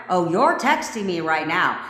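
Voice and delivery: firm, commanding affirmation; with authority. Shown as a demonstration. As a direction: state it as an order, with authority. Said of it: "Say it with a little goddamn authority".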